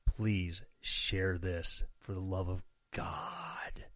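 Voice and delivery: low, drawn-out whispered plea; mock begging. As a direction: beg jokingly under your breath, slowly. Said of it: "really not begging you to share it".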